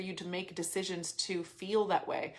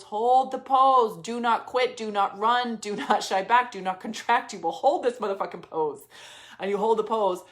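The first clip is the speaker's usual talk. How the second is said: louder, forceful orders; commanding; 6 dB louder than usual. Acted. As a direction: bark it like a drill coach. Coach orders herself to hold on.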